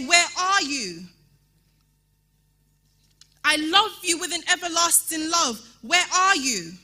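fiery preaching. Acted. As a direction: preach it out to the whole church. Preaching at full force.

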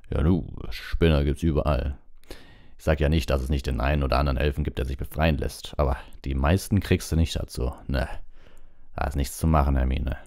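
a hint of a stubborn Hagrid; lightly voiced Hagrid, dismissive. Hagrid turns down Hermine's elf campaign, dismissive. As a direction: brush the argument off, lightly in character.

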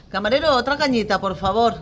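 loud, high call across the bar; calling the waiter. Acted. Parent ordering another small beer from the waiter, calling out. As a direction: sing out your order to the waiter.

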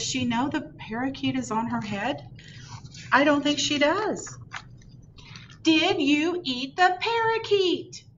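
high, loud, gleeful; excited. A narrator's reading. Librarian squealing to kids at the bird on her head. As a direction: burst out with delight at the joke. Excited, teasing the oblivious girl.

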